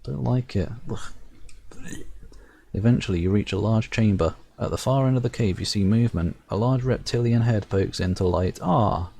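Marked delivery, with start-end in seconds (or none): 2.7-9.1 measured storyteller reading the game text; story narration. A narrator's reading. Reading the game's narration aloud to viewers, storyteller voice. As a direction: narrate it like a fairy tale.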